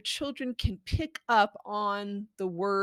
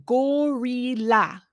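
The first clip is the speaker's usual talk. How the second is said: coaxing whisper; 3 semitones higher, 4 dB louder than usual. Shown as a demonstration. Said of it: "You can say".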